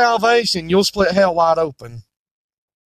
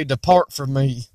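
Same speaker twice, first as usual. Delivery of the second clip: lower, slow stern judge; voice of Jesus; 6 semitones lower than usual. Acted. Jesus telling the religious to depart, lightly voiced stern judge. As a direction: pronounce the sentence gravely. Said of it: "Jesus is gonna say".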